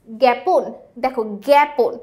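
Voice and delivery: "জ্ঞাপন" said as "gyæpon"; vowel like æ. Shown as a demonstration. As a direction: give "জ্ঞাপন" an æ in the first syllable. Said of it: "এ এর মতো উচ্চারিত হচ্ছে". ("জ্ঞাপন"-এর আ উচ্চারণ অ্যা-র মতো)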